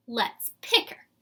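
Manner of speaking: loud, teasing jeer; mocking. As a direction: taunt her playfully. Girls taunt Chrysanthemum.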